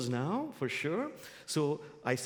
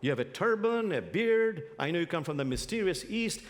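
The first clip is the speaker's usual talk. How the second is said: annoyed guide; 4 semitones higher than usual. Acted. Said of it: "the guide is very annoyed".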